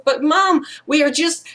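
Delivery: a hint of pleading small child; lightly voiced protesting child. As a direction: lightly imitate a child starting to explain. Child protesting to angry mother.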